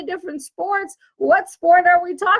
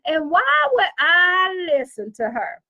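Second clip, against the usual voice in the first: mock New Yorker; 5 semitones higher than usual. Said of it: "they gonna be like".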